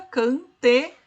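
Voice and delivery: very slow, syllable by syllable; scanning syllables. Shown as a demonstration. Teacher counting syllables for the class, very slow. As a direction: stretch each syllable to count it. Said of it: "aqui junta".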